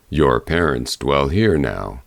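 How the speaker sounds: low, grave bear voice; low bear warning. A narrator's reading. Bear warning the girl about her mother, low and grave.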